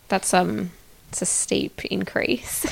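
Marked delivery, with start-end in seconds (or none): 1.1-2.6 whispered aside. Real, not acted. Dry comment on savings goal.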